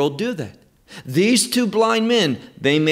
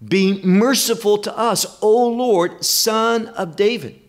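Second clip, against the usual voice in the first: crying out; 4 semitones higher than usual. Retold or imitated. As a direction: call out to the Lord for mercy. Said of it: "they were crying out".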